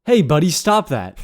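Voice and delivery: lightly acted stern warning to a stranger; audition read. Reading a scene for his audition, mildly stern. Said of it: "so I'll just start".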